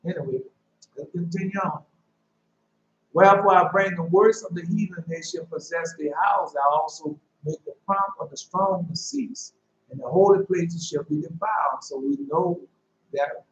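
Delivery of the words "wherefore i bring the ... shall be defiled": measured solemn reading of scripture. Real, not acted. Preacher reading the prophecy to his congregation, solemn. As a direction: read it out like holy writ.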